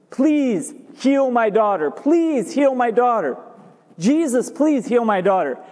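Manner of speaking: imitated plea, lightly urgent; a touch of repeated pleading; mild begging. Mother asking Jesus to heal her daughter, mildly begging.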